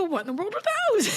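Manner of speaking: fast confused husband. Retold or imitated. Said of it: "He goes".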